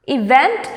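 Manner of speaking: "event" with the weight on VENT; stress on second syllable. Shown as a demonstration. Teacher reading words to students, "event" stressed on VENT. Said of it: "stress on the second syllable".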